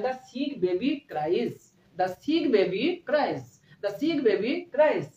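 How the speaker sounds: put-on the sick baby cries read out very slowly; very slow model sentence. Shown as a demonstration. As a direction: drill the sentence slowly for weak students. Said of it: "ক্রাইজ হবে". (খুব ধীরে ধীরে ইংরেজি বাক্য পড়া)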